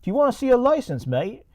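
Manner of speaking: high, fast mock English voice; Creepy English. Creepy English to the police approaching him, high mock voice. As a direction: rattle it off as a squeaky caricature Englishman. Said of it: "Creepy English gets out of his car and says".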